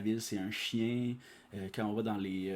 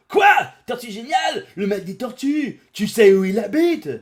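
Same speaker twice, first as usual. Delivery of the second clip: much higher, louder astonished shout; startled disbelief; 12 semitones higher, 16 dB louder than usual. Acted. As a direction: gasp the master's name in shock. Gyumao surprised by name.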